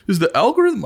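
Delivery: high, needy mock question; self-mocking plea; put-on pleading voice. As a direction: pitch it up in a silly begging voice. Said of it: "I don't know why I'm doing that voice".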